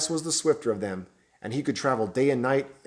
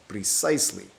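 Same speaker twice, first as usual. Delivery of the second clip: cold merciless; 3 semitones lower than usual. Acted. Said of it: "in a cold, hard, merciless voice".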